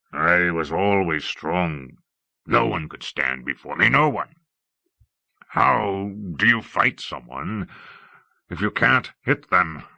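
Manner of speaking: slow, heavy king, musing aloud; lightly voiced king lost in confusion; brooding, regretful king.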